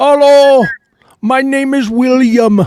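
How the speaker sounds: put-on heavy Indian accent. Retelling a call to a phone number, imitating the guy in a heavy indian accent. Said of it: "some guy with the hard Indian accent".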